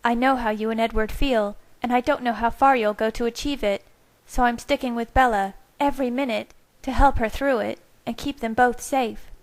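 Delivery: defiant Rosalie standing up to them. A narrator's reading. Rosalie warning Carlisle and Edward, defiant.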